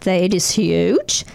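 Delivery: relaxed Australian surfer voice, lightly put on; laid-back Australian drawl, lightly done; Australian accent. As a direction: read it like an Aussie surfer would. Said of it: "read this in an Australian accent".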